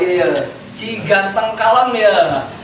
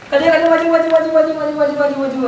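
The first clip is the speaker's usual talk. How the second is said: excited calling; 6 semitones higher, much faster than usual. Real, not acted. Calling people to come forward.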